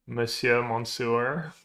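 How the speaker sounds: Monsieur in a heavy American accent, mon-SUER. Shown as a demonstration. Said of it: "if you say Monsieur with a very American accent".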